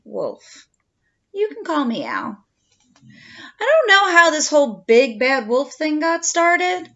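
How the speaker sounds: lightly voiced wolf narrator, chatty; a hint of a sly wolf telling his side; storytelling wolf. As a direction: tell it as the wolf, confiding. Reads the wolf's story aloud.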